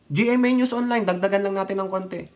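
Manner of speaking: ordinary talk, nothing marked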